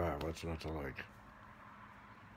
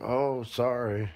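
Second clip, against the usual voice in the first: sarcastic; 2 semitones higher, 7 dB louder than usual. Retold or imitated.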